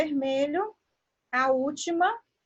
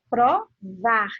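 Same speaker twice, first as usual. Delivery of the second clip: Provar split in two, stress on final VAR; stress on last syllable; 3 semitones lower, 4 dB louder than usual. Shown as a demonstration. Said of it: "dita com uma entonação mais forte".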